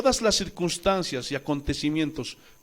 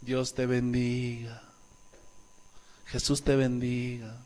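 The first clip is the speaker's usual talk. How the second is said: pious Christian talk; 8 semitones lower, 9 dB quieter than usual. Shown as a demonstration. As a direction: lay on the gentle believer's blessing. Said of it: "los cristianos hablamos de diferente forma".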